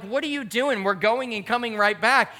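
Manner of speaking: retold exasperated husband; mock exasperation. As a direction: question her with playful disbelief. Husband questions wife's packing, retold.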